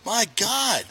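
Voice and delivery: high, hammed-up lament; mock dramatic. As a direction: overplay the tragedy for laughs. Mock-dramatic praise of Orioles fan.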